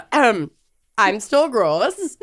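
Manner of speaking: congested cold voice; sick voice. Real, not acted. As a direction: sound stuffed up. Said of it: "as you can see and hear".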